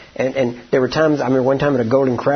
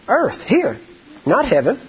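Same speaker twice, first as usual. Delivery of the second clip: ordinary delivery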